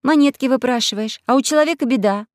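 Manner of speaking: put-on angry girl. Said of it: "рассердилась Алиса".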